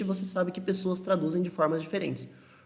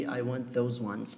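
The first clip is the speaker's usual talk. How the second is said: slow wrong example; 4 semitones lower, 5 dB quieter, much slower than usual. Shown as a demonstration. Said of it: "em vez de".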